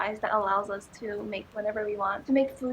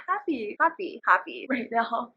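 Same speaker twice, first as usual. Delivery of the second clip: giggly; slower than usual. Real, not acted. Repeating happy giggling.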